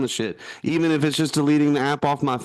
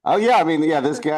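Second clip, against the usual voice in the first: muffled mask voice, pitched up; talking through a face mask; 4 semitones higher, 5 dB louder, faster than usual. Real, not acted. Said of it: "this mask has some good range here".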